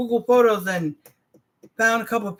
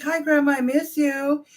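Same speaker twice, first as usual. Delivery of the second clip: imitating a sweet, higher-pitched greeting; 6 semitones higher than usual. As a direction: mimic a daughter sweetly greeting her grandma. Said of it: "she's so sweet".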